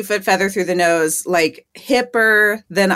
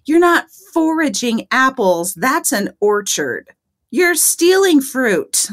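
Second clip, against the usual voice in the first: slow, pointed, higher on the last line; incredulous correction; 5 semitones higher, slower than usual. Retold or imitated. Telling the hippie the apples are an orchard, slow and pointed. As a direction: spell it out to him. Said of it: "And I was like".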